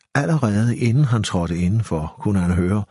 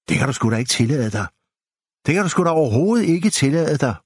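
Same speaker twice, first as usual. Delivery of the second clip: fast, rising indignant tirade, much higher and louder; outraged; 7 semitones higher, 3 dB louder, faster than usual. A narrator's reading. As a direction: she builds to a furious fast scold. Pil outraged at insult. (forarget, hurtig skældud der stiger)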